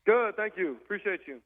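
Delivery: windy, hollow phone line; wind tunnel. Real, not acted. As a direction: voice roaring through a wind tunnel. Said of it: "you sound like you're in a wind tunnel there".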